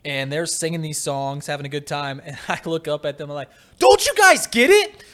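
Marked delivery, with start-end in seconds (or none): 3.8-5.0 high, loud, exasperated yell with the last words slowed right down; a much higher, much louder outraged yell; drunken yelling. Retold or imitated. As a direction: shout it at the partying girls in disbelief. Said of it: "I am yelling at these girls".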